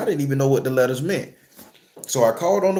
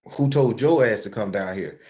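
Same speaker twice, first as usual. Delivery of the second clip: nasty; 5 semitones lower than usual. Retold or imitated. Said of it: "so damn nasty and disrespectful".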